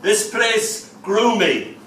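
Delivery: slow, high, mildly tearful lament; sobbing. Acted. His tears speaking of home, understated slow sob. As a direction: draw it out with a touch of a sob. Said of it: "sobbed my tears".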